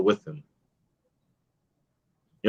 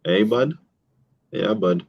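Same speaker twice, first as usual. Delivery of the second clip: put-on Canadian accent; 4 dB quieter than usual. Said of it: "talking the Canadian English".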